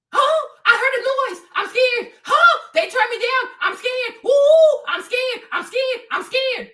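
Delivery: hammed-up whimpering fear; mock scared. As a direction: play a timid believer startled by every noise. Mocks fearful unbelieving Christians.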